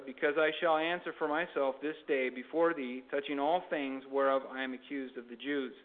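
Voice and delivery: measured Bible reading with lifted phrase openings; scripture reading. Acted. Preacher reading Acts to listeners, formal scripture reading. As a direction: read the verses out to a congregation.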